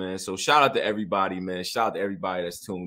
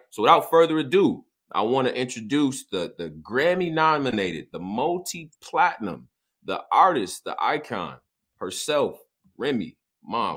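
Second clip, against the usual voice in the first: announcer intro; 2 semitones higher than usual. Acted. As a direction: introduce her like a champion. Grand guest introduction.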